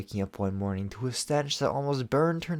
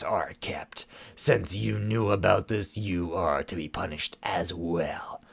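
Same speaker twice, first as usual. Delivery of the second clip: cold stern sorceress. Acted. Shadow Weaver pronouncing punishment.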